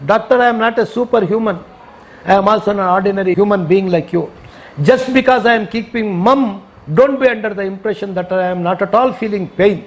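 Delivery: deliberate, phrase-by-phrase remonstrance in English; retold protest. Injured patient telling the doctor he feels pain, retold protest. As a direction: spell it out slowly and firmly to the doctor.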